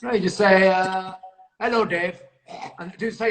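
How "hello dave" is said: lightly put-on hello for someone to copy; Mister Khan impression. Shown as a demonstration. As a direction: demonstrate the character's greeting, a touch louder. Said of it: "I want you to do the impression".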